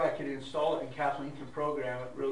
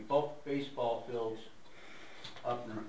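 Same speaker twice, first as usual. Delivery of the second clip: talking around a wad of chew; words mushed by tobacco in cheek; mouth full; 3 semitones lower, 4 dB quieter than usual. Real, not acted. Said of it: "Sorry, I got chew in my mouth".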